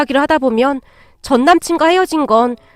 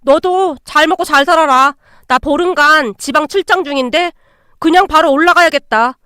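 gleeful and a touch raised; elated. Acted. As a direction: crow over your lucky break. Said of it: "신이 나서 전화를 끊었어요". (신이 난 말투)

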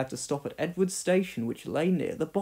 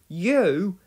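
exclaiming; 3 semitones higher, 4 dB louder than usual. Acted. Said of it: "exclaimed the others in one voice".

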